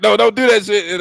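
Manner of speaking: high, loud mock protest; mock pleading girlfriend. Imitating a girlfriend as boyfriend pokes himself, pleading.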